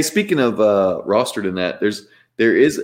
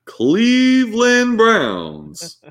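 flirty teasing dating host; 4 semitones higher, slower than usual. Acted. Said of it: "contestant number one".

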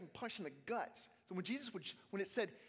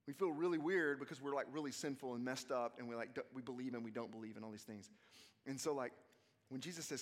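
ordinary delivery

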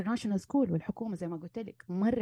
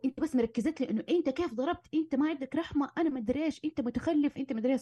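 higher, accusing wife's rant, lightly acted; mock angry blaming; 6 semitones higher than usual. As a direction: pile the blame on him like in a heated fight. Acts wife's angry accusations at husband. (لوم غاضب تمثيلي بصوت أعلى)

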